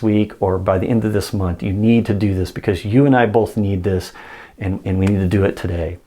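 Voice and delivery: firm, no-nonsense sales push; direct, pushy ask. Shown as a demonstration. Salesman to a direct-listening client, firm direct demand. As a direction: demand the order plainly and firmly. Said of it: "A direct listener, I'm gonna say".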